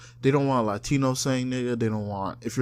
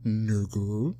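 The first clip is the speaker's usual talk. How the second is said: NIGGA said low with a rising end; questioning tune; 4 semitones lower than usual. Retold or imitated. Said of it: "it sounds like a question".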